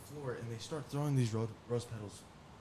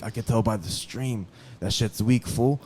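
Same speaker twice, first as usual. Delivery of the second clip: loud mocking jab, louder; taunting cellmate; 7 dB louder than usual. Cellmate mocks his weak stream, loud. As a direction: rub it in loudly.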